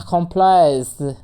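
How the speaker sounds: accomplice, very slow, each sound drawn out; slow stretched. Shown as a demonstration. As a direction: say accomplice slowly, stretching the end. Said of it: "rhythm देर तक करना है". (accomplice धीरे और खींचकर)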